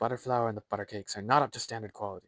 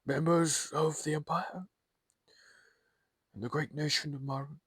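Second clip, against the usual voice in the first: weighty commanding emperor; 8 semitones higher, slower than usual. Acted. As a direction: proclaim it slowly to the whole court. Emperor's formal address begins.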